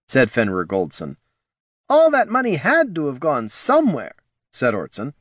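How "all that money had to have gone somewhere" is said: nervous advisor voice. Acted. Ortson's line.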